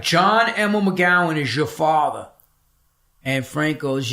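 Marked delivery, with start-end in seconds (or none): 0.0-2.3 higher, disbelieving question from the nurse; mildly astonished, as if the news lands; a hint of shock in the nurse's voice; surprised nurse. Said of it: "And she's like".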